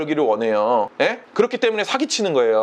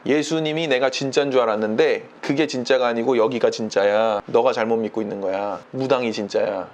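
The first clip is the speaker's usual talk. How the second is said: 낮게 읊조리는 변심한 장로 말투; 낮은 목소리로 단정하듯 옮기는 장로의 말; 10 semitones lower than usual. Retold or imitated. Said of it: "이분이 이렇게 말한대요". (낮게 깔고 전하는 장로 흉내)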